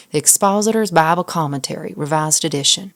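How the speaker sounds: a light joking Southern accent on the title; mock Southern accent. Shown as a demonstration. Showing the title loses authority, light mock Southern accent. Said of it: "can't be a Southern accent. That would sound like".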